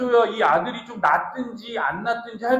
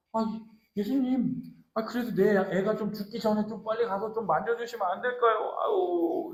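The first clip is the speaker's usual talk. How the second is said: softer, hesitant acted plea; anxious, fidgety pleading; 3 semitones higher, 4 dB quieter than usual. Royal official timidly begging Jesus for his dying child, fretful. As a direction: plead timidly, fretting as you go. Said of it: "막 안절부절하는 거".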